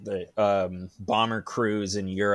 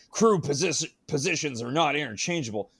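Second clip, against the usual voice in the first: lightly mock declaring, higher-pitched; quoted movie line; 6 semitones higher than usual. Host quoting a line from the movie, lightly mocking quote.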